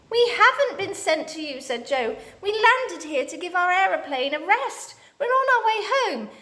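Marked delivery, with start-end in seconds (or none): 0.1-1.6 Joe. A narrator's reading. Joe protesting to Dame Snap. 2.4-6.3 Joe. A narrator's reading. Joe protesting to Dame Snap.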